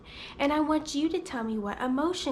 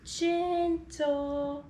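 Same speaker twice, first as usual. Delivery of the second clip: gentle. Retold or imitated. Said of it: "I take his little hand and say".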